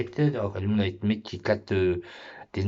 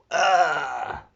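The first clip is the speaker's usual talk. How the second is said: surprised shout; 6 semitones higher, 6 dB louder than usual. Real, not acted. Shocked at tongue record.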